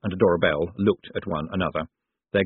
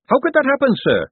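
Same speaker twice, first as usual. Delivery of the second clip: very high, innocent officer's question; puzzled watch captain; 5 dB louder than usual. A narrator's reading. Carrot questions Moist about the dentures, puzzled. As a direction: ask it earnestly, pitched well up.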